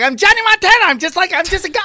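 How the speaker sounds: very high, hyped-up host voice. Retelling how a coked-up show host always talked: imitating Johnny Montana's way of talking. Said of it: "He always talked like this the whole time".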